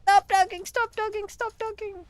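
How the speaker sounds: loud, high, slow repeated shout; yelling at narrator. Real, not acted. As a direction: yell at him to shut up.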